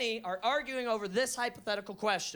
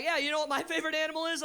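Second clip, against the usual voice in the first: wife's eager question; 5 semitones higher, much faster than usual. Retold or imitated. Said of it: "she was like".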